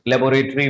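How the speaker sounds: लेबोरेटरी said as "lay-bo-rate-ree"; common mispronunciation. Shown as a demonstration. Teacher quoting what many people say, mispronounced. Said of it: "वगैरह करके pronounce करते हैं".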